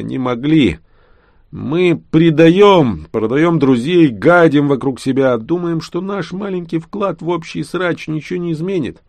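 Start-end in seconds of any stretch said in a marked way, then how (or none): 1.5-9.0 bitter tirade. Acted. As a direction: spit out the accusation against everyone. (горькая обличительная речь)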